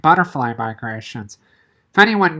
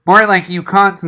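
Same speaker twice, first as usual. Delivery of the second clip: sour; 4 semitones higher, 4 dB louder than usual. Acted. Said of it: "put in Rochelle sourly".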